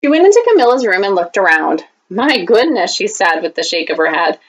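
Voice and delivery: put-on lively read-aloud for kids; story reading. Teacher reading a picture book to students, storytime voice.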